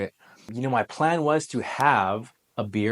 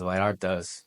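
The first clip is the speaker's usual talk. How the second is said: Vallartas said lightly with a Spanish accent; a passing Spanish accent on Vallartas; 3 semitones lower than usual. Shown as a demonstration. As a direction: give Vallartas a quick touch of Spanish accent. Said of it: "that's my Spanish accent there".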